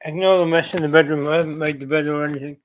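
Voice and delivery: out of breath from the stairs; puffing after climbing stairs. Real, not acted. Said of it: "I can't even walk up the stairs".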